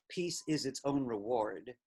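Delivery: 把 Peace 和 reward 读重，is its 轻带过; slow, lean on "Peace" and "reward"; stress on peace and reward. Shown as a demonstration. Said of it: "I'd wanna stress the word peace".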